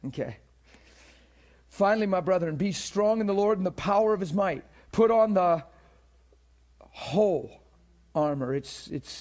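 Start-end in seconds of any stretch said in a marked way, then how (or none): 1.7-8.5 Ephesians read aloud, louder, leaning on whole; stress on whole. Shown as a demonstration. Preacher reading scripture to the church, stressing whole. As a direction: read it ringing, land hard on whole. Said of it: "I'm emphasizing that on purpose".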